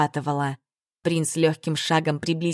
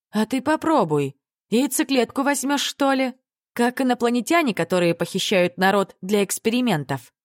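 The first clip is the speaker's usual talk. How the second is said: pitched high, playfully incredulous; high teasing disbelief; 7 semitones higher than usual. Acted. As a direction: tease him with a bright high voice. Heroine teasing about aliens.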